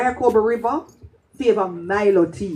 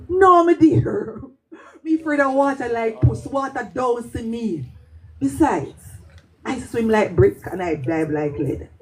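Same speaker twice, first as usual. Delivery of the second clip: laughing reply; 3 semitones higher than usual. Retold or imitated. Teller answers fearfully, laughing.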